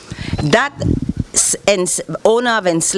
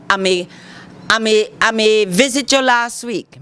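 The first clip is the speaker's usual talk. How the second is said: Creole sentence demo. Shown as a demonstration. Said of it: "I say".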